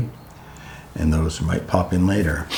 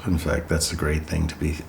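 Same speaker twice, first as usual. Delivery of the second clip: guided meditation; 5 dB quieter than usual. Real, not acted. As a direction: guide them gently into breath and stillness.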